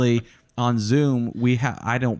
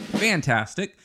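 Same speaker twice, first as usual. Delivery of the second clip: higher, emphatic exclamation; punched-up quote from fan mail; exclamation mark added; 7 semitones higher, slower than usual. Retold or imitated. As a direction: read it out like it ends in an exclamation mark. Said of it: "did not put an explanation point on there, but let me tell you, I did".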